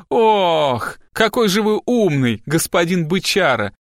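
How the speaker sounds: high, mocking sarcasm; venomous mimicry. A narrator's reading. Girl apes the assistant to taunt detective, venomous. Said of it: "ядовито передразнила Пиппа".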